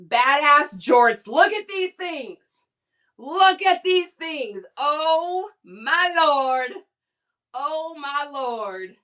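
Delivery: slow, loud, drawn-out awe; gushing hype. Real, not acted. Selling jorts to the live audience, in slow awe. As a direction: savour each word like it's treasure.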